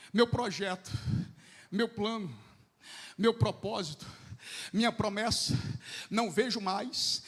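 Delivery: soft, low, grieving lament of a mother. Acted. Mother mourning her son, speaking softly in grief. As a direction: let each loss fall quietly.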